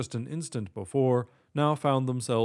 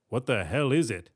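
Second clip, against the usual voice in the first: gruff bank manager voice. Acted. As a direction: voice the worried manager.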